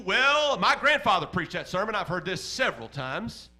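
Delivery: bored churchgoer. Retold or imitated. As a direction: shrug it off like a churchgoer who's heard it all. Adult shrugging off a sermon.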